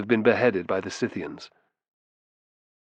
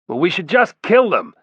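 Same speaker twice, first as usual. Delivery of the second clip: loud, higher, hostile call; shouted; 8 semitones higher, 6 dB louder than usual. A narrator's reading. A voice from the back urges killing the pair, shouted. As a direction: call it out over the crowd. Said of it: "shouted a voice from the back".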